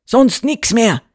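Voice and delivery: high, scornful exclamation; shouting mayor. A narrator's reading. Mayor rejecting the landlady's idea, crying out. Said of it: "schrie der Bürgermeister".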